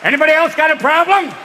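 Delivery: high, loud challenging taunt; menacing Cheney. Retold or imitated. Cheney after shooting a heckler, loud taunting challenge. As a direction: dare the room to answer.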